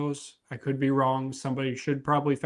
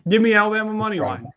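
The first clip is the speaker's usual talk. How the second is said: emphatic pick; 7 semitones higher, 5 dB louder, faster than usual. Real, not acted. Picks announced on sports podcast.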